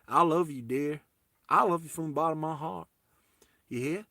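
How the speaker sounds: mock American sweetheart talk; really American accent. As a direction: put on a really American accent, lilting up at the ends. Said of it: "like, really American".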